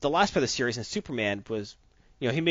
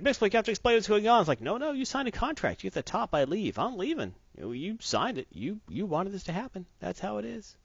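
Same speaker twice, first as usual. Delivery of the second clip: higher, teasing voice of a smug trickster; mock taunting imp; 7 semitones higher than usual. Retelling the comic, the imp teasing Superman, higher and taunting. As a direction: needle Superman with glee.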